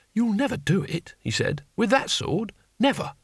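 high-pitched disbelieving voice; scoffing samurai. Acted. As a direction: scoff at the old man's sword, high. Samurai scoffs at Cohen's sword.

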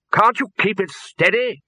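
high, loud demand; Arch-Chancellor demanding the bursar hold the broom steady. A narrator's reading. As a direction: bark it over the wind. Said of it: "the Arch-Chancellor demanded".

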